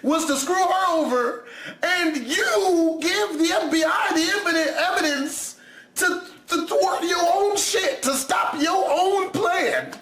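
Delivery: high, slow, laughing rant; laughing disbelief. Real, not acted. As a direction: laugh through an outraged rant. Mocking the killer's plan.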